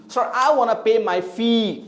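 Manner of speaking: slow example with a long ee in 'fee'; 'fee' held long; drawn-out vowel. Shown as a demonstration. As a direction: stretch 'fee' at the end. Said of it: "इन sound को हम खींच रहे हैं".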